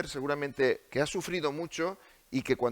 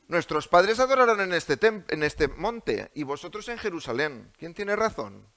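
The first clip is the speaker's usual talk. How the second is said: evasive retort; 2 semitones higher, 4 dB louder than usual. Acted. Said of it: "trata de salirse por la tangente".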